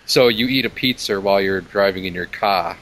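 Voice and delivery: New England accent, dropped and added Rs. Shown as a demonstration. Demonstrating the R rule, New England accent. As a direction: lightly put on New England, "car" without its R. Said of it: "what about New England accent".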